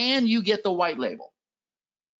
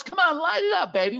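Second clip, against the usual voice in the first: excited hype; 8 semitones higher than usual. Real, not acted. Hyping chat to type ideas.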